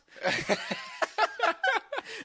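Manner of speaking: real high-pitched burst of laughter; big high laugh. Real, not acted. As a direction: howl with laughter, rising. Cracking up at own story.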